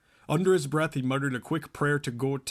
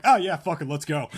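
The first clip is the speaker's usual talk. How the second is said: excited; 2 semitones higher, 6 dB louder than usual. Retold or imitated. Voicing brother, excited.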